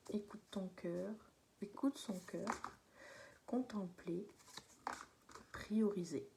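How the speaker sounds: talking through hiccups; hiccuping between words. Real, not acted. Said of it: "Je suis désolée, j'ai le hockey".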